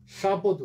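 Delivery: শাপদ as sha-po-do, three syllables; final-vowel variant. Shown as a demonstration. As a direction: finish শাপদ on an o. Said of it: "দুটো উচ্চারণ বৈধ". (শাপদ, শেষের ও উচ্চারণ করে)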